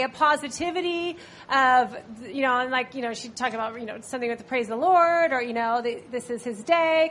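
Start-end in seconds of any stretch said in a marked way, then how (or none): 6.1-7.1 a touch higher and louder, imitating mom; happy, chipper mom. Daughter quoting mom's morning praise, mildly chipper. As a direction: lightly mimic a cheery morning mom. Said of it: "this happy, chipper voice".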